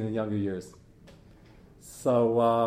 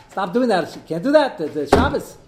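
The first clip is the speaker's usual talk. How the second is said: raised, higher shout from above; father yelling out the window; 6 semitones higher, 7 dB louder than usual. Retold or imitated. Father on fourth floor yelling down at his kid, higher and louder. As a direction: call down sharply to stop him. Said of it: "He yells out".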